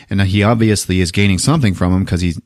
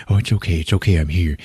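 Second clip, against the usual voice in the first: softly acted comfort, settling lower; reassuring; 3 semitones lower, 3 dB quieter, faster than usual. Stone comforting Kim in the bathtub, gently reassuring. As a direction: soothe someone who is panicking.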